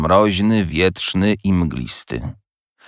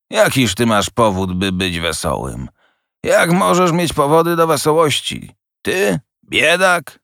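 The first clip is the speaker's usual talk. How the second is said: higher, mocking, slowing to a sneer at the end; scornful old miser; 7 semitones higher than usual. A narrator's reading. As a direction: scoff at his cheerfulness, drawing out the last words. Scrooge scoffs at the nephew. (drwiący, pogardliwy Scrooge)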